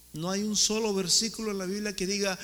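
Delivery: usual speaking voice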